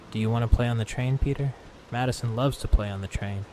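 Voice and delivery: put-on quick, eager, sing-song child monster; a light hint of a creepy child's voice; childlike train voice. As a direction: lure him in like a lonely child. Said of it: "like a child's, with a deep, rumbling metallic undertone".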